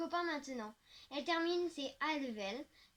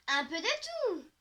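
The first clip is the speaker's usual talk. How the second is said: higher, louder and slow, relishing it; exclaiming; 5 semitones higher, 6 dB louder, slower than usual. A narrator's reading. Girl celebrating the holidays at the café, slow excited call. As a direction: savour the treat you're about to order. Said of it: "je lance".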